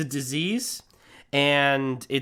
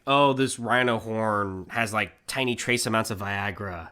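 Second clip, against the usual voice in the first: mock salesman voice; 6 semitones lower, 4 dB quieter, slower than usual. Mock gullible believer quote.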